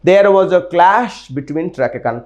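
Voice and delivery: very slow, word by word; slow model sentence. Shown as a demonstration. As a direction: spell it out slowly for the class to repeat. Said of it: "फिर से मेरे साथ सारे बच्चे बोल". (धीमे-धीमे उदाहरण वाक्य)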